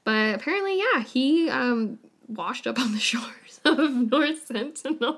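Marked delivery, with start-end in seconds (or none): 2.3-5.2 slow, laughing through the words; chuckling while telling it. Real, not acted. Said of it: "You're laughing as if it's like".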